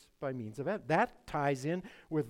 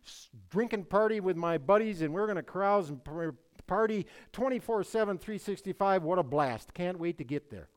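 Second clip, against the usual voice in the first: lightly mimicked eager partygoer; mock bravado, loud at first then easing off; mocking unbeliever; 3 semitones higher, 6 dB louder than usual. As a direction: play a cocky sinner, louder and livelier. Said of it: "And they think".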